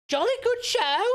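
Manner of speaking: high, loud jolly gentleman; hearty booming country squire. Acted. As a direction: boom it like a cheery squire. Hammed posh exclamation.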